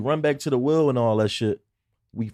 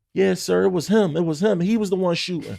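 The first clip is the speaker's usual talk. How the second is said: imitating kid; 6 semitones higher than usual. Retelling the boy snitching to the cop, kid voice. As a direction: play the eager tattling boy. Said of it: "He walk up to the cop and said".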